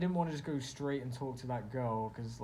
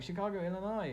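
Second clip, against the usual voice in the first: put-on excited girl; 7 semitones higher, faster than usual. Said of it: "she's just like".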